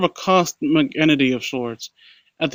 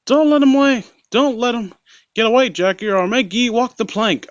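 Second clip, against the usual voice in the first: taunting shout; 8 semitones higher than usual. A narrator's reading. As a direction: yell it at your first mate. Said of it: "Isaac antagonized".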